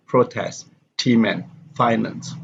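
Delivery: PRO in "protest", FI in "finance" stressed; first-syllable stress. Shown as a demonstration. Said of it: "stress is usually on the first syllable".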